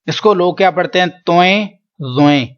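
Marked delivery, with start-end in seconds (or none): 1.3-2.5 توئیں and زوئیں in plain Urdu style; everyday Urdu letter names; wrong Urdu reading. Shown as a demonstration. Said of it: "دونوں ہی غلط ہیں".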